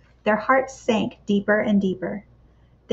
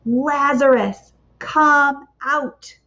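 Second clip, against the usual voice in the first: Lazarus called slow, higher and louder; mighty yell; 5 semitones higher, 3 dB louder, much slower than usual. Acted. Jesus at the tomb yelling for Lazarus, a slow mighty call. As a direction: call him out of the tomb like a lion's roar. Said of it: "he yelled like a mighty lion's roar".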